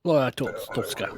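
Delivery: hammed-up Russian accent on the name. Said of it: "not doing Russian accent any favors".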